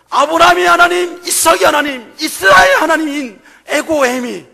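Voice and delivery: rising to a loud, slow, emphatic peak; preaching at full force. Real, not acted. Preacher proclaiming God's name to the congregation, loud and slow. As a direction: build it up and proclaim.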